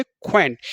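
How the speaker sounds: क्वैंट as one syllable, "kw" plus "ant"; dropped vowel. Shown as a demonstration. Teacher showing students the trick, क्वैंट as one-syllable q-plus-ant. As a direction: join a q sound straight onto "ant" for क्वैंट. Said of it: "क्या पढ़ेंगे इसे".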